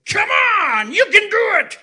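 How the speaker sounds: high, loud sideline cheer; loud mock cheer from the sidelines; cheering parent. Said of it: "and they go".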